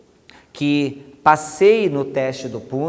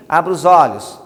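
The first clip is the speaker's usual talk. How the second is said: brisk command; 3 semitones higher, 10 dB louder than usual. Shown as a demonstration. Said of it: "algumas pessoas vão fazer assim".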